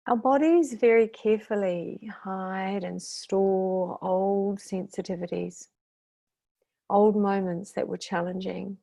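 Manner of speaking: unhurried meditation guide with long pauses; guided meditation. Acted. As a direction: lead them gently through the breathing, drawing out key words.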